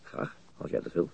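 slow, whispered reply; tender whisper. Acted. Beck whispers slowly that he would love to stay. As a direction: breathe the answer gently, slowly.

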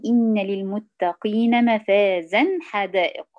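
"إن للمتقين مفازا حدائق" recited slowly in tajweed; slow Quran recitation. Shown as a demonstration. Teacher reciting an example verse for the class. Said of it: "مثال مثلًا".

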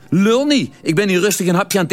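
lightly voiced Venlo lout; Venlo dialect. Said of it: "Alles steeds in vuig plat Venloos".

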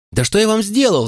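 high, strained yell of protest. A narrator's reading. Boy yells at the deputy, feeling picked on. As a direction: yell it out, fed up and hurt. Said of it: "заорал я".

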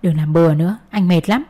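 drowsy, half-awake mumble; sleepy. Acted. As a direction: talk as if barely awake. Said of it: "anh nói giọng ngái ngủ".

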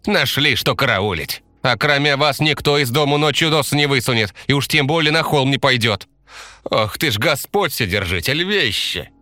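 put-on high, lamenting old village woman; scolding granny. A narrator's reading. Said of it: "ругала нас бабка Таисия". (бабка ругается и причитает высоким голосом)

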